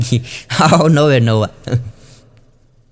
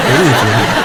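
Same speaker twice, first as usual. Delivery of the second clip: fading laugh; 4 semitones lower than usual. Retold or imitated. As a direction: let the last words melt into a chuckle. Repeating dying husband's words.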